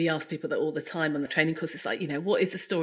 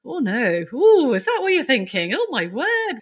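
higher, exaggerated dismay from a caring friend; mock shocked friend; 4 semitones higher than usual. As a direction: reassure with mock alarm. Friends reacting in retold scene.

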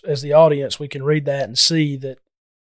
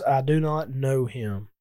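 softer and slowed, a quiet dismayed echo; hushed denial; 6 dB quieter, slower than usual. Shown as a demonstration. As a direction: repeat it hushed, letting it sink in. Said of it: "here says".

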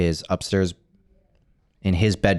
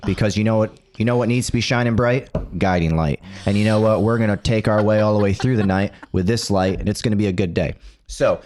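showman host. Acted. Hammed-up host welcome.

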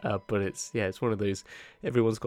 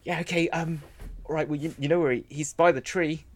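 messenger character; 3 semitones higher than usual. Acted. Messenger briefing the party about the temple, chatty character voice. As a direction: rattle on as the busy messenger. Game master plays messenger.

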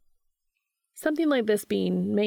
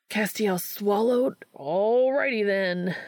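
yelling; 3 semitones higher, slower than usual. A narrator's reading. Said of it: "Dean yells".

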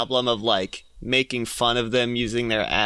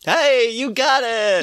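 excited; 10 semitones higher, 3 dB louder, slower than usual. Real, not acted. Quiz host cheers correct answer.

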